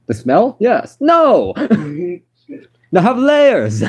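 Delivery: hammed-up, high-pitched attempt at a Scottish accent; badly faked Scottish accent, rising to an emphatic exclamation; Shrek. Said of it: "You cannot do a Shrek accent".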